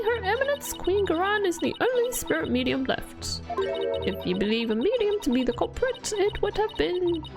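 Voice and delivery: a rambling, self-pitying grandma; old lady voice. Acted. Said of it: "I'm butchering this voice acting".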